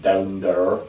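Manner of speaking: lightly put-on West Country accent; a quick, half-joking Cornish twang. Podcast host teasing about Cornwall, mock West Country accent. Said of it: "that accent".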